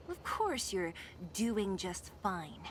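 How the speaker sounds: slow, dry mockery of his excuse; sarcastic. Partner mocking the thief's claim, slow and sarcastic. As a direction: drag it out, unimpressed.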